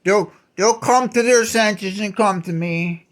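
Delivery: lightly voiced smug god; a touch of petty scheming in the voice; mock blackmailer. Voicing God as a blackmailer, lightly mocking. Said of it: "like, using blackmail".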